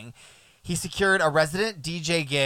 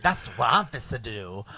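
mock British accent, clipped and posh-ish; 4 semitones lower than usual. Shown as a demonstration. Host contrasts British and American speech, mock British accent. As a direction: say it like an English person would. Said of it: "you compare that with a British accent".

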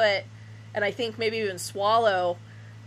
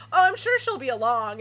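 mock breezy reassurance; 2 semitones higher, 3 dB louder than usual. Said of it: "everybody's like".

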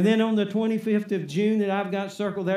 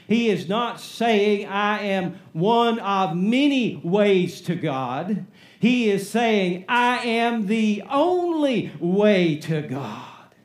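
building preaching; 3 dB louder, slower than usual. Real, not acted.

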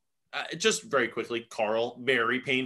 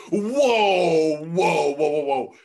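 mock freaking out; 2 semitones higher, 7 dB louder, much slower than usual. Imitating her reaction to his calm questions, freaking out. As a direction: burst in loudly to halt someone. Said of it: "she was freaking out".

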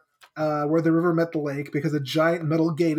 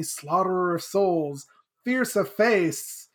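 lightly dramatic retold title; Shezmu; slower than usual. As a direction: draw out the grim nickname slowly at the end. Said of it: "And Shezmu's like".

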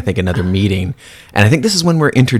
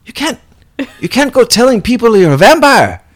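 much higher hushed mock scold; high mock vampire warning Nick; 12 semitones higher than usual. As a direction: pull him aside and scold.

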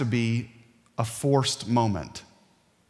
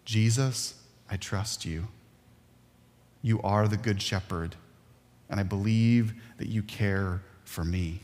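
quiet prayer; 3 semitones lower, 3 dB quieter than usual. Pretend. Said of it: "I want us to ... say".

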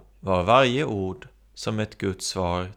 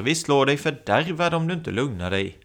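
threatening; 5 semitones higher than usual. Acted. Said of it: "Då blir människorna arga och hotar".

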